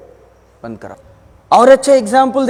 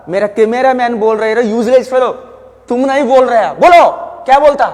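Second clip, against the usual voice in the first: mock scolding; 6 dB louder, faster than usual. Teacher scolds his cameraman.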